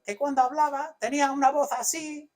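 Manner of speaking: squeaky little voice. Retold or imitated. Preacher imitating Paul's weak voice for the congregation, squeaky and high. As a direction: squeak it out like a man with a reedy voice. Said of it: "Pablo tenía una voz de pito".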